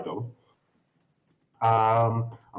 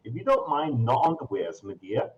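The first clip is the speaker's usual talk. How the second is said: higher, fast saleswoman patter; brisk shopkeeper; 6 semitones higher, faster than usual. Acted. Shop lady pushing her half-price wares, fast and higher. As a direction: rattle off the sales pitch.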